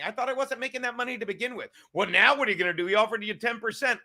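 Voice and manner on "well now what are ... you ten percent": mocking critic voice. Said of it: "I said".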